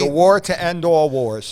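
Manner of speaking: loud, slow dramatic slogan; grand documentary narrator; mock announcer. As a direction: boom it like a newsreel. Cohost booms famous slogan.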